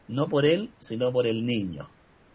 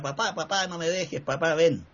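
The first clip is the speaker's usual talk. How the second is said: lightly imitated little boy pleading, higher pitch; child's pleading cry; 4 semitones higher than usual. Six-year-old running after his father, mild imitated cry. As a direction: plead like a child, without really shouting. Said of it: "que avanza corriendo y grita".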